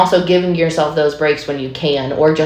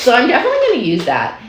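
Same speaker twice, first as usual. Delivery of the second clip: laughing; 8 semitones higher, much faster than usual. Real, not acted. Laughing while saying it.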